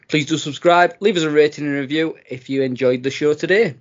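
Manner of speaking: lively scripted podcast plug; promo read. Real, not acted.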